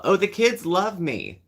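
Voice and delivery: high, slow sing-song mock; mocking boast. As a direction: parrot her smug boast.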